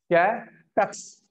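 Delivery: drawn out slowly to teach it; slow demo word. Shown as a demonstration. Teacher drawing out कैपेक्स for the class. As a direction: stretch कैपेक्स slowly so students catch it. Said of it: "short में बोलते हैं".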